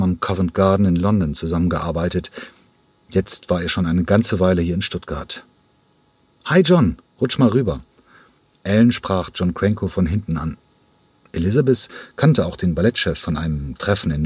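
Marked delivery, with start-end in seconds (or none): 6.5-7.8 high, loud friendly hello; cheery greeting. Acted. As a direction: greet an old friend brightly. Friendly greeting across the table. (fröhliche Begrüßung, hoch und laut)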